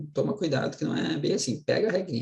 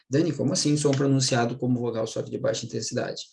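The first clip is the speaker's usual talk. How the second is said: questioning student; faster than usual. Retold or imitated. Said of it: "voicing a student's question".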